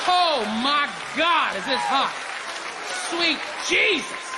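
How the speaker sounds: slow, drawn-out mock ecstasy; hammed-up pleasure. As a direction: moan it like it's too good.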